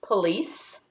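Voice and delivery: single words with very long pauses; isolated words, long silences between; dictating while writing. Shown as a demonstration. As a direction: release one word at a time.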